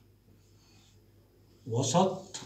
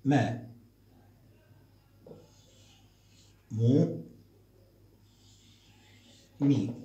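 teacher modelling syllables aloud; loud and clear; 4 dB louder, much slower than usual. Shown as a demonstration. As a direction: call out each syllable loudly. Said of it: "ننطق بصوت عالي".

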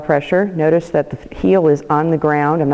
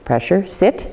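trainer cue; 3 semitones higher than usual. Shown as a demonstration. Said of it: "So it will be like this".

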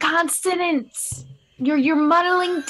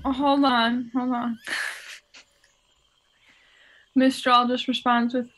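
ordinary talk

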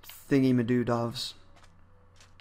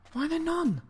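pitched way up, a whiny sing-song wail; high whiny complaint. Real, not acted. Gamer whines high that no Endermen have spawned.

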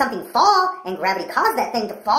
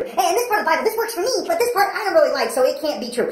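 mocking picky believer; 2 semitones higher than usual.

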